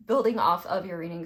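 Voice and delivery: burping. Real, not acted. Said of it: "Sorry, I'm burping".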